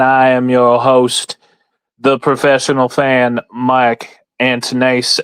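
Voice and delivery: put-on host intro in a gentle Southern accent; mild Southern accent, unhurried. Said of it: "Can't do that Southern voice".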